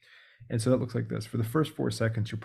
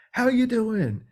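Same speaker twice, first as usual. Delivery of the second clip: much higher, slow, sing-song hello; overly cheery greeting; 12 semitones higher, 5 dB louder, much slower than usual. Retold or imitated. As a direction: greet like a pushy salesman. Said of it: "I go".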